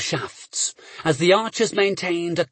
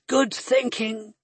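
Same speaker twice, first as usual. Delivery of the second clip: croaking; 4 semitones higher, slower than usual. Acted. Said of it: "she croaked".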